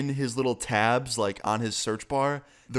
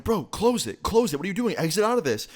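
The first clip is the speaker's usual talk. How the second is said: yelling at Josh; 9 semitones higher than usual. Retold or imitated. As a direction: yell at your friend to shut it now. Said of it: "I'm yelling at Josh".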